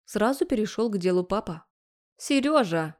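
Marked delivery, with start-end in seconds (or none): 2.2-3.0 higher, sweetly wheedling call; angelic little voice. A narrator's reading. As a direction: call his name like an angel. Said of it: "сделала ангельский голосок кабаниха". (ангельским голоском)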